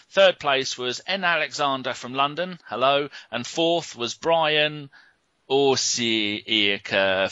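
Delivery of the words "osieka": Osieka from Oklahoma stretched out slowly, every syllable given weight; drawn-out name. Shown as a demonstration. Host reading out a runner-up from abroad, slow and drawn out. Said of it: "How dare you enter a competition with him".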